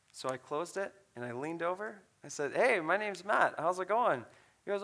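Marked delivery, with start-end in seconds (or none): 2.5-4.3 higher, louder upbeat hello; friendly greeting. Retold or imitated. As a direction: introduce yourself brightly to a stranger. Cheerily introducing himself to a stranger.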